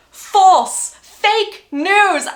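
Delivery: loud, high, emphatic denial; emphatic correction. Real, not acted. Correcting her last video with a loud, high denial. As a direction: shoot down the rumour loudly.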